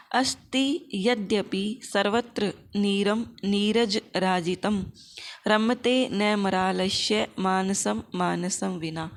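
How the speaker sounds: slow, word-by-word shloka reading; careful Sanskrit recitation. Shown as a demonstration. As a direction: pronounce each word of the verse clearly and slowly. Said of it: "वर्णों का या शब्दों का अच्छी प्रकार से उच्चारण". (शब्द-शब्द स्पष्ट करके धीमा श्लोक-पाठ)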